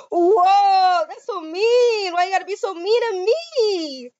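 high, slow put-on whimper; hammed-up hurt whine; mock whine. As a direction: pretend to be hurt, whining. Whining at rude character.

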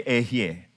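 Ehyeh spoken as a model to repeat; Hebrew word. Shown as a demonstration. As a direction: say Ehyeh for the class to echo.

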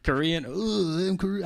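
high, put-on Korean accent. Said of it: "do a Korean accent when you say Taekwondo".

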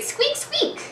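very high squeaky mouse noise; squeaking imitation. Shown as a demonstration. Teacher quizzes student on sound words, high squeaking imitation. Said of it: "That does make the same sound".

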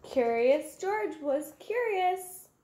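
usual speaking voice

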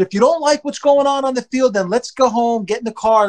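retold screamed scolding. Dad orders son from the bleachers, retold mild yell. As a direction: lay down the law to a kid. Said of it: "But I screamed it".

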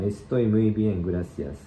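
slow, deliberate Estoy muy bien, gracias; slow model reading. Shown as a demonstration. Teacher slowly reads the third line aloud for learners. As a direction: lay out each word for students to copy. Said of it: "三行目の".

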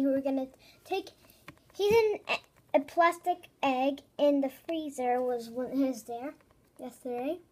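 talking with gum in mouth; words blurred by chewing gum. Real, not acted. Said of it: "Sorry, I have gum in my mouth".

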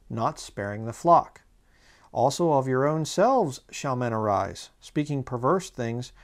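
solemn Bible reading, stretched out; scripture reading. Acted. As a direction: read it out like holy writ, measured. Reads scripture aloud.

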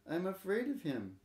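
put-on mild tearful child telling on grandfather; lightly voiced scared little boy; sobbed. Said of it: "sobbed Tada".

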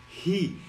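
"Ri" as "hi" on a puff of hot air; hot-breath H. Shown as a demonstration. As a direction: breathe out "Ri" like fogging up glasses. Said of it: "Você tem que soltar aquele bafo quente".

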